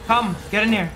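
hurried pleading to hide; being chased. Real, not acted. Fleeing enemies, urging partner along.

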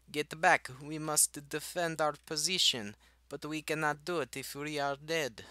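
rally the troops in a fake Russian accent; mock Russian officer's high-pitched orders; bad Russian accent. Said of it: "Something like that".

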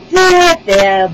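loud, high, cooing consolation; soothing queen. A narrator's reading. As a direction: comfort him in a high queenly voice. Queen soothes sobbing king.

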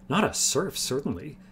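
understated shock, pitch jumping up. A narrator's reading. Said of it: "Lildoran sounded shocked".

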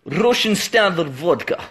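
put-on Russian accent. Shown as a demonstration. Showing off accents for viewers, attempted Russian. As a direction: say it as a mock Russian. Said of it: "Your accent didn't change there from Russian".

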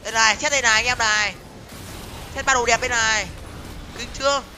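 loud, emphatic call to the viewers; loud showing off. Real, not acted. Streamer showing anh em his three items, loud showing off. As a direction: call it out proudly, well above chat volume.

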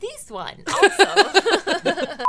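hammed-up Italian accent, loud on also; a jokey Italian accent flourish. Asked for her Italian accent, she hams it up. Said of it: "what's your Italian accent?".

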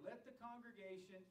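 deliberate, measured stress on "congregation"; emphasis on CONGREGATION. Shown as a demonstration. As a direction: repeat it with "congregation" held out. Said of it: "I'm intentionally emphasizing that word".

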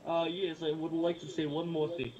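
thick mock Russian accent. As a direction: put on a heavy Russian accent. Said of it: "I like your Russian accent".

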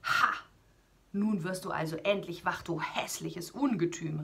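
called out. Acted. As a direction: taunt the monster, unafraid. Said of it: "rief Siegfried".

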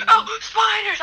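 high startled cry. Real, not acted. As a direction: jump at the spiders. Startled by spiders.

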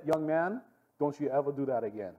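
lightly voiced stern warning; a hint of a scolding guard.

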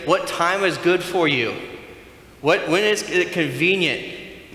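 high, loud, slow mock-polite questions; polite enquiry. Imagined guest checking a convenient time with Zacchaeus, mock-polite. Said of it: "He doesn't ask Zacchaeus".

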